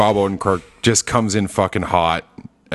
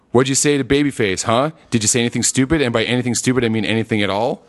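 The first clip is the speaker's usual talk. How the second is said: Saul impression. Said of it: "And then he".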